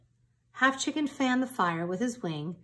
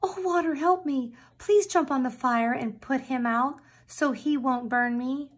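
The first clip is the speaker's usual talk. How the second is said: higher, urgent plea; pleading rooster; 5 semitones higher than usual. Acted. Rooster pleads with water to douse the fire, higher. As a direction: ask the water for rescue, voice up high. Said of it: "Half Chicken asked the water".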